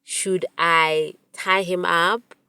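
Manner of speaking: slow and level, chillingly matter-of-fact; eerily calm. Retold or imitated. Friend calmly describing how to hurt her boyfriend, cold calm. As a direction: plot it like a calm serial killer. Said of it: "she was so calm as she said it".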